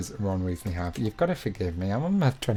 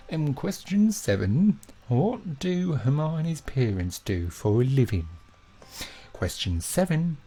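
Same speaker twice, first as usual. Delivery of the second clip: slow, hammed-up Birmingham accent. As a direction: read the quiz question in a drawn-out mock Brummie accent. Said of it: "I think I'm doing a Birmingham accent".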